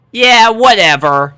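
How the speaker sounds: loud, high dismissive brush-off; defiant. A narrator's reading. Dash brushes off Applejack, loud and defiant. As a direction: shrug it off defiantly. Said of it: "she responded defiantly".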